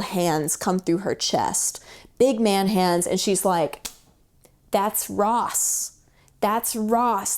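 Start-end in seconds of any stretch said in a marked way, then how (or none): 4.7-5.9 breathless whisper of recognition; awed whisper. Retold or imitated. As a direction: whisper it like a sudden realization. Whispered realization in retold meditation.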